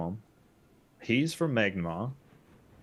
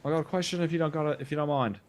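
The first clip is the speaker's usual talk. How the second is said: higher-pitched call to someone on a boat; 4 semitones higher than usual. Acted. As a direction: hail a stranger, raised pitch. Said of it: "Just, like, shout out".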